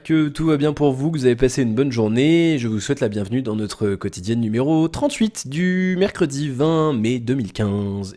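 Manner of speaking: flat robotic monotone. Real, not acted. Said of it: "je parle comme un robot".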